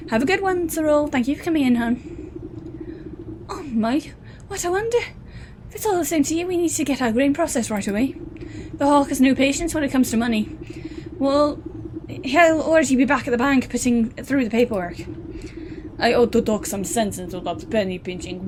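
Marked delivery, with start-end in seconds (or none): 0.1-3.5 chirpy shopkeeper, higher pitched; higher villager voice. Acted. NPC bids Cyril goodbye in a higher voice. 3.5-15.0 pitched-up, quick, eager wife; high villager wife. Acted. Miller's wife hurries them about the hawk, higher.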